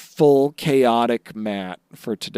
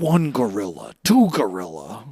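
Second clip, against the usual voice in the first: Sesame Street count. Retold or imitated. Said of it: "a little Sesame Street count".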